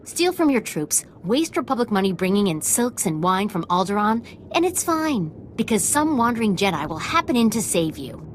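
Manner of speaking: bitter sarcasm. Acted. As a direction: rail sarcastically at an unfair boss. Quartermaster mocking her corrupt commander.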